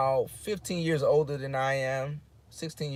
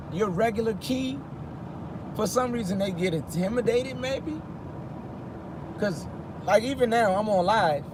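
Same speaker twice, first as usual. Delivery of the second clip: higher, lighter non-threatening voice; raised code-switch voice; 6 semitones higher than usual. Real, not acted. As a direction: talk up high to sound harmless. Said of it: "this is not my regular key".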